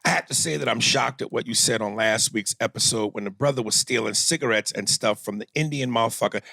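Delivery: lightly voiced Black Panther, low-pitched. Host reading out a complaint to Aries, lightly put-on Black Panther voice. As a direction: read it as a mild Black Panther impersonation. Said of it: "in my Black Panther voice".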